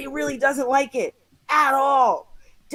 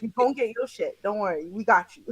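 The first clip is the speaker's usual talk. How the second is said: calm man soothing the angry passenger; calm reassurance; 4 semitones lower than usual. Retold or imitated. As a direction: settle him down gently. Imitating the calm man again.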